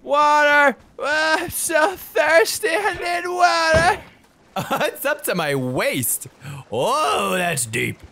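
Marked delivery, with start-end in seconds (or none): 0.0-4.0 hammed-up parched cry; mock desperate thirst. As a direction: cry out for water dramatically.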